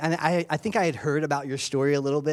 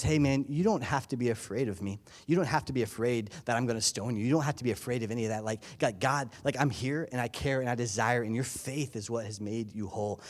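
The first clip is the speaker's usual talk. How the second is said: gentle Jesus; 5 dB quieter than usual. Retold or imitated. Jesus reassuring the healed woman.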